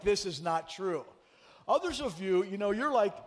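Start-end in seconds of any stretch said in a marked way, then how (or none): 0.0-1.1 mock doubt. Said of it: "That's when you're like".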